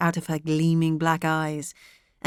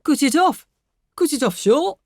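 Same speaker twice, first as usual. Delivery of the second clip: blurted, higher and louder; lightly voiced rash father; 8 semitones higher, 6 dB louder than usual. A narrator's reading. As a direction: snap out a careless solution. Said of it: "said the father rashly".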